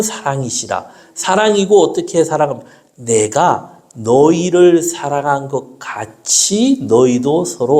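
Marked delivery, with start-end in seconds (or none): 3.0-7.8 slow scripture recitation. Acted. Recites John 13:34.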